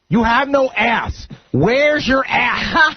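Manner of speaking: imitated heckling yell, high and stretched out. Fan taunts the coach, imitated long high yell. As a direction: drag out a mock stadium taunt. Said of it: "his voice cuts through the whole crowd".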